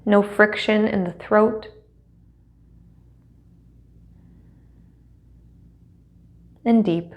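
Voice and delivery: measured, unhurried meditation guide with long pauses; guided meditation. Acted. Teacher settling students into seat and breath, guided meditation. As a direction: guide them gently into stillness, leaving space between phrases.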